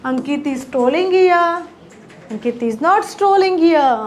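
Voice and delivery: very slow, clear dictation of each English word; teacher modelling English slowly; slow model sentences. Shown as a demonstration. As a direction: spell the sentence out slowly for learners. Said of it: "પહેલામાં શું હતું?".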